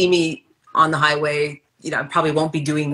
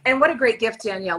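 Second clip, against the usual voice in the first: higher, bubbly home shopping host; hammed-up QVC host; 5 semitones higher than usual. Hosting a pretend QVC show with her friend, hammed-up and higher. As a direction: oversell it like a TV shopping channel host. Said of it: "We could have our own Q V C show".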